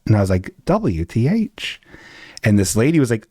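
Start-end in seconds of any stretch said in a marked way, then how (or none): 0.6-1.8 slow deadpan. Retold or imitated. Reacting to locked door.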